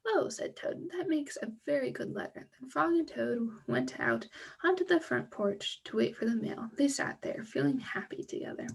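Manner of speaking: lively storybook read with character voices; reading to children. Acted. Teacher reading a Frog and Toad story to children, animated storybook voice. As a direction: read the tale aloud to the kids, bright and animated. Reads story ending aloud.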